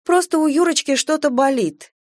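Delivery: put-on high, placating young mother; cooed, high-pitched excuse; sweet cooing. A narrator's reading. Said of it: "умильно проворковала она".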